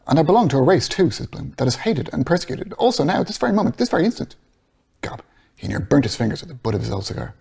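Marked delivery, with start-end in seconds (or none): 0.1-4.3 higher, building passionate protest; impassioned Bloom. Acted. Bloom's rising, impassioned plea.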